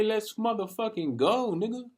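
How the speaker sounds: high, excited hype-up cheer; cheering on a friend who wants to work. Retold or imitated. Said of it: "I'm gonna say".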